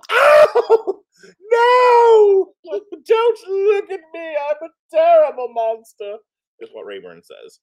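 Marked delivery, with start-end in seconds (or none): 0.1-6.2 very high, loud hammed-up lament; wailing monster. Voicing the dreadful monster begging not to be seen, melodramatic wail. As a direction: cry out in mock despair. Acts out Rayburn's despair.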